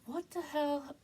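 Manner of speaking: high, baffled retold exclamation; imitating her dazed self on the ground; confused what the hell. Dreamer sprawled by the cart, voicing high puzzled surprise. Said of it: "laying on the ground going".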